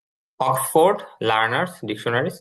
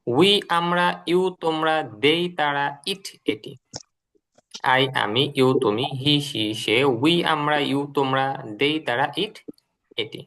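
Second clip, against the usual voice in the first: rhythmic drill recitation; slower than usual. Shown as a demonstration. Teacher models the pronoun list for the class, in a steady chanting rhythm. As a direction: chant each English pronoun, then its Bengali meaning, in a steady beat. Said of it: "একসাথে বলবেন".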